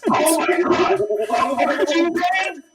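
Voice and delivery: talking over a screeching fax; drowned by a loud fax noise; cut by fax screech. Real, not acted. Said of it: "What is that sound?".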